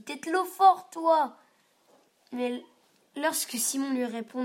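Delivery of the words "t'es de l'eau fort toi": higher, louder admiring cry; little brother thrilled and impressed; delighted admiration. A narrator's reading. Gaspard cheers his big brother, delighted and loud. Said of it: "est trop content".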